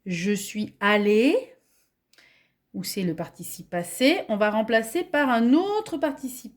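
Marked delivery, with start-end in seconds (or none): 0.1-1.4 example sentence. Shown as a demonstration. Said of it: "Par exemple, dans la phrase".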